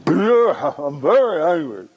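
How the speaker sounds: mild acted anger in an everyday register; firm but contained display of anger. Shown as a demonstration. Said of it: "register lower".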